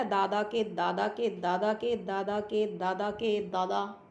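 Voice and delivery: दादा के दादा run on evenly in one long string; long repetitive chain. Shown as a demonstration. Teacher showing pupils a long ancestry, दादा chained evenly. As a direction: chain each दादा to the next without a break. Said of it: "इस तरह से लंबी जब बोलते हैं".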